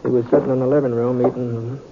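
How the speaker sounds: easy drawling western narration; story narration. A narrator's reading. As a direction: tell it like a cowboy looking back.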